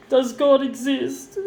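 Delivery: tearful. Real, not acted. Breaking down over lost partner.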